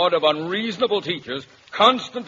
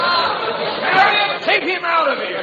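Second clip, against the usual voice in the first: pleading; 10 semitones higher, 4 dB louder, slower than usual. Acted. Father begs daughter to remove Walter.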